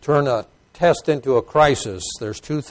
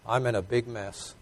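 humble confessional prayer; 4 dB quieter than usual. Acted. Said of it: "He said".

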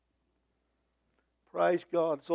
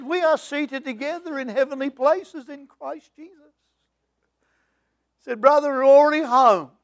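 higher, louder joyful declaration; joyful quoted reply; 5 semitones higher, 7 dB louder than usual. Retold or imitated. Dying missionary answering the preacher's text, joyful triumph. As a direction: proclaim it triumphantly. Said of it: "he wrote back and said".

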